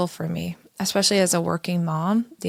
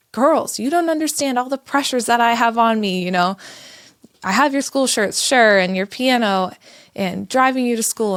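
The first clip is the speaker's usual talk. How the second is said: raised, higher, louder stressed rant; losing her cool; 5 semitones higher, 4 dB louder than usual. Retold or imitated. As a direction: spill every pressure out at the kids in one exasperated run. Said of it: "lost my cool".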